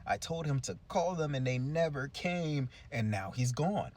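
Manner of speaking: hammed-up tearful woman's voice; mock crying woman. Crying woman at City Hall about the mayor, high mock lament. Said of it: "and she's crying".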